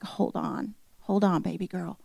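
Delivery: put-on softly soothe, as if calming a child; quiet, tender retold comfort; gentle reassurance. God answering a grieving mother's prayer, gently reassuring.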